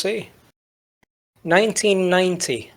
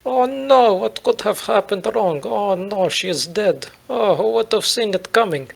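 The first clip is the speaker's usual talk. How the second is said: mock dismay; 2 semitones higher than usual. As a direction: feign shock at a death you planned. Playing Putin in mock grief.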